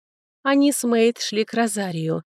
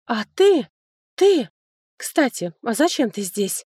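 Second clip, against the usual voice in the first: higher, pointed suspicious questions; 4 semitones higher, 3 dB louder than usual. A narrator's reading. Lerdes questioning her older sister, suspicious and higher. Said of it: "подозрительно спросила Лердес".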